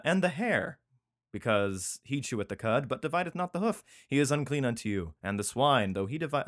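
lightly declaimed Bible verse; emphatic reading of holy law; scripture reading. Acted. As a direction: lift the opening words, then settle into recital. Reads scripture aloud.

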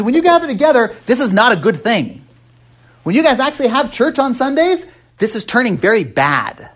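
high, pressing rebuke of Paul; pointed paraphrased rebuke; stern paraphrase. Retold or imitated. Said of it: "That's what he's saying".

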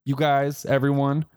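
high, bright flip-flop; chirpy mock church voice, voice up high; mock Christians. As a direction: pitch it way up, playfully backtracking. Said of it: "they flip-flopped and they were like".

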